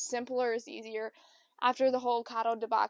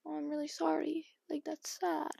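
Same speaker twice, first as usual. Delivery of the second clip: soft, higher mock condolence; token sympathy; 4 semitones higher, 6 dB quieter than usual. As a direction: imitate half-hearted sympathy, hushed. Retells people's lukewarm sympathy.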